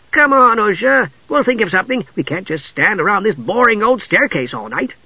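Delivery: high, upbeat kender voice; cheerful coaxing. A narrator's reading. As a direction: coax her along brightly, pitched high. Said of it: "Tass said cheerfully".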